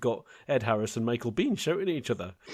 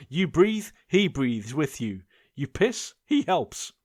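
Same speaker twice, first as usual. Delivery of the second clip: army commander; 4 semitones higher, slower than usual. Retold or imitated. Quoting army commander briefing.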